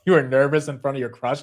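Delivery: normal talking voice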